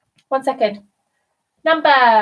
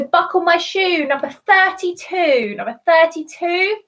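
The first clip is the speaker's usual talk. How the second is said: higher, lilting bingo call; bingo caller; 4 semitones higher than usual. Acted. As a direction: announce it like a bingo hall caller. Calling a bingo number.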